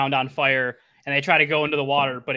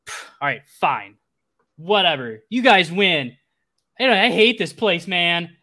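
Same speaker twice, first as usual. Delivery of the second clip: higher, louder sulky whine; petulant surrender; 3 semitones higher, 5 dB louder than usual. Acted. Game master as beaten Thad quitting the fight, petulant. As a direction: give up in a mock tantrum. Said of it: "Thad runs off crying".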